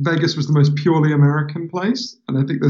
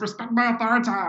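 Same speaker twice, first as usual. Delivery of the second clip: put-on high, pitched-up, bratty cartoon kid voice; 8 semitones higher, 7 dB quieter than usual. Explaining that all their American accents turn into one voice: Cartman voice. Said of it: "all my American accents converge on Cartman".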